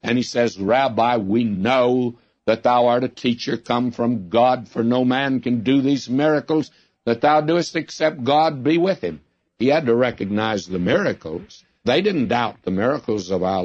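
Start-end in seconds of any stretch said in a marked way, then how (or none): 0.6-9.2 a hint of a superior Pharisee talking down to the rabbi; mild, smooth condescension; condescending. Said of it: "he comes in a condescending manner".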